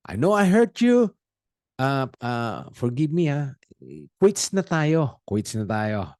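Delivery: pushy, offhand forgiveness demand; demanding apology. Shown as a demonstration. Wrong way to ask forgiveness of the person hurt, pushy. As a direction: brush it off, quits na tayo. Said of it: "Parang hindi ganon".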